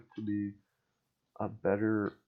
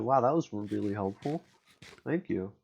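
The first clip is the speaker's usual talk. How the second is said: sarcastic thanks. Retold or imitated. Sarcastic thanks to a useless complainer.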